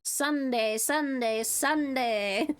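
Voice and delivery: hyped announcer chanting Sunday; monster truck ad. Retold or imitated. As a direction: call it like a rally promo. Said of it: "Welcome to the Monster Truck Rally".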